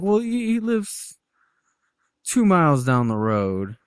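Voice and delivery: imitated breezy, stalling nonchalance; very casual. Captor brushing off the doctor question, very casual. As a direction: start high and drawn out, then settle into an offhand answer. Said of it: "Very casually enough".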